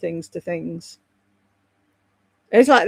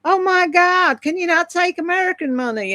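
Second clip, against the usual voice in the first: mock gruff American; 9 semitones higher than usual. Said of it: "there's some big gruff American going".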